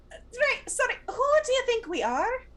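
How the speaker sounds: high, loud mock outrage; acted indignation. Sawbones turns back, indignant in character.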